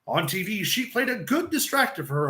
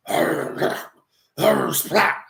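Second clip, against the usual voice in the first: dog groans; 3 semitones lower, 4 dB louder, much slower than usual. Retold or imitated. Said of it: "I hear the dog go".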